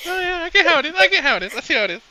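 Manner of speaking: high and loud, fighting off a cough; choking. Real, not acted. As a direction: squeeze the words out past a cough. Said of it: "You need a minute".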